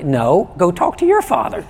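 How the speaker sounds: high, laughing brush-off; mock stern dad. Pastor playing a dad refusing a neighbour's kid, laughing. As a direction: playfully send the strange kid away.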